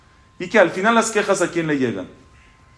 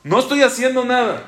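despairing; 5 semitones higher than usual. Acted.

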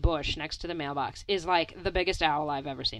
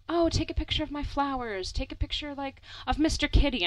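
mom voice; 7 semitones higher than usual. Retold or imitated.

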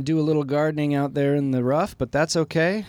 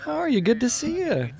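high-pitched greeting; 12 semitones higher than usual. Real, not acted. Greeting a guest player.

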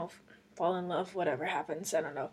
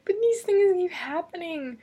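still laughing; 9 semitones higher, 6 dB louder than usual. Real, not acted. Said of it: "I'm laughing".

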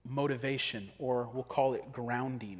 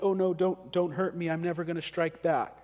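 higher, louder mock fearful plea; mock cowering; 4 semitones higher, 4 dB louder than usual. Preacher mocking the passive Christian, mock fearful. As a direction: ham up a cowering weakling. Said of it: "cower in fear and be like".

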